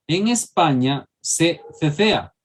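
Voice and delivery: "se cecea" said slowly with a lisped th; Spanish ceceo. Shown as a demonstration. Teacher demonstrating Spain's ceceo to students. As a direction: demo the Castilian z in "cecea". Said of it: "nosotros ceseamos".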